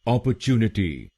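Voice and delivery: अपॉर्चुनिटी with a British "chyoo". Shown as a demonstration. Teacher giving the British form one last time. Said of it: "British English में".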